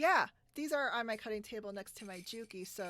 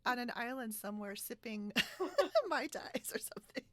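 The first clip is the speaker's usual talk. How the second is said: laughing mock envy; 2 semitones higher than usual. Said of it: "And then you're like".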